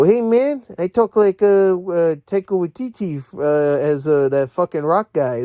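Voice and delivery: mock Taika-style pig voice. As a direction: play a goofy talking pig. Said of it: "There's one pig that talks like that".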